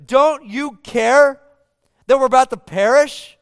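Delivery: frightened disciples begging their sleeping teacher; exasperated, terrified. Acted. Disciples shout at sleeping Jesus in exasperated terror. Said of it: "frustrated and terrified and an exasperated tone".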